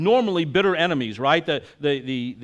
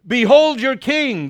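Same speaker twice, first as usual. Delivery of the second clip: loud, much higher, slow call; Pilate proclaiming; 9 semitones higher, 9 dB louder than usual. Acted. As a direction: present him to the crowd. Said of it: "he said to the Jews".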